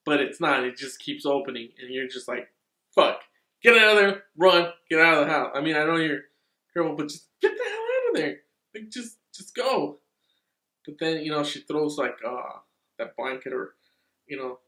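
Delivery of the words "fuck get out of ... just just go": loud, urgent yell to get out; yelling warning. Retold or imitated. Viewer yelling at the girl to run, loud urgent shout. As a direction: shout at the screen like a scared viewer.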